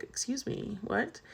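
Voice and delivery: quietly thrown, asking back; taken aback. Retold or imitated. Retells reacting to admission news.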